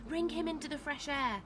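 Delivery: yelled order. A narrator's reading. Leela directing the rescue, moderately yelled order. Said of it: "she yelled at a man".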